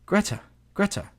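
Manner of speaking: high-pitched call without extra volume; crying out. A narrator's reading. Mother calls out to her daughter, high cry. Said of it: "she cried out".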